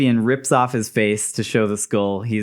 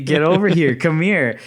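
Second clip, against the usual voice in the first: louder eager call with a laugh; excited fan shout; 6 semitones higher, 4 dB louder than usual. Retold or imitated. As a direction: greet your idol like a thrilled fan. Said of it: "You'd say".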